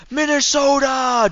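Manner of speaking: high, drawn-out mock Biden shout; Joe Biden impression. Streamer recalling a meme clip, mock Biden cry. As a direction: stretch it out like a rambling old president. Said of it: "Joe Biden, I think".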